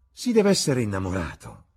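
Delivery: exclaiming. A narrator's reading. Hostess teasing a guest about love, exclaiming. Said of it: "esclamò Lady Narborough".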